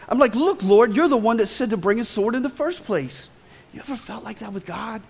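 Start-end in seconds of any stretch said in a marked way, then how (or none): 0.3-3.3 louder, indignant complaint to the Lord; angry Peter protest. Pretend. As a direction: throw the blame back at Jesus. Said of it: "I'm mad. I'm livid".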